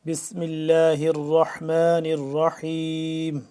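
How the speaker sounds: slow recitation. Acted. Begins lesson with ta'awwuz, basmala.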